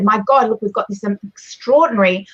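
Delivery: excited. Shown as a demonstration. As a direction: get a bit excited and amazed. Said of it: "get a bit excited".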